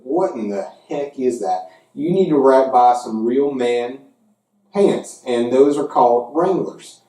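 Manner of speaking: hint of a Southern hick accent ribbing rival fans; Southern redneck voice. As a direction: play a Southern SEC fan, Jim Bob Cooter, taunting UCF. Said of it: "Let's do the voice of the S E C".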